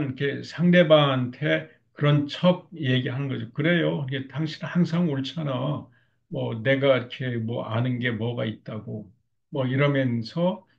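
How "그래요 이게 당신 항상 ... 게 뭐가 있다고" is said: mild mock sarcasm, feigned agreement; a touch of passive-aggressive sarcasm toward the husband; sarcastic. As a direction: lightly act a wife's sarcastic giving in. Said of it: "비꼬고".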